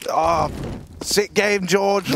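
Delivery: sarcastic. Pretend. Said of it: "very sarcastic".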